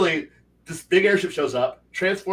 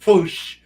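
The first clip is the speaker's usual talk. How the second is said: a loud mock whoosh of something flying away; mimicking the airship's takeoff with a quick loud whoosh; whoosh sound effect; 3 semitones higher, 6 dB louder than usual. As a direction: make the airship zip off with a whoosh. Airship flying off after the stomp.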